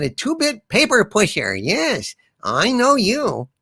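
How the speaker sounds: put-on a sweet old lady tearing into him; old woman witness. Grandma witness to the prosecutor, lightly voiced scolding.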